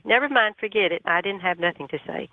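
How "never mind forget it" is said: retold backing out. Backing out of a phone call.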